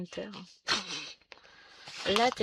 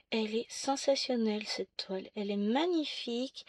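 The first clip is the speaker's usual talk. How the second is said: muffled behind a hand; talking through hand over mouth; 5 dB quieter than usual. Real, not acted. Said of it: "la main devant la bouche".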